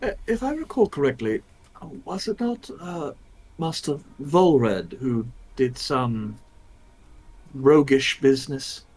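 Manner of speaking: lightly acted god, hesitantly recalling; lightly voiced god. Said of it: "God speaks up".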